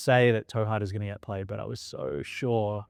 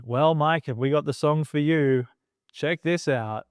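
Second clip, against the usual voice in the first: louder, hyped host tease; radio host build-up; 4 semitones higher, 4 dB louder than usual. Retold or imitated. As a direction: sell the reveal like a DJ. Radio host teasing the song reveal.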